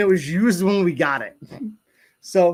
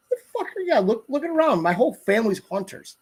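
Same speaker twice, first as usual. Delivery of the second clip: high mock-indignant voice, much higher; scoffing retort; 4 semitones higher than usual. Son scoffing at his dad's question, high indignant voice.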